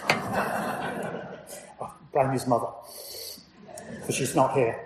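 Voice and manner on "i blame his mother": chuckling through the words; laughing. Real, not acted. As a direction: say it with a soft laugh. Joking aside, laughing.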